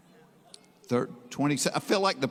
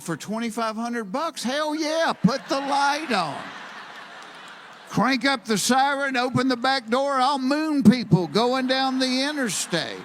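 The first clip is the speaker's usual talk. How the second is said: gleeful high shouting, louder; hammed-up giddy yell about the siren; excited; 9 semitones higher, 4 dB louder than usual. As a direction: whoop it up like it's a party ride. Excited reply to paid ride.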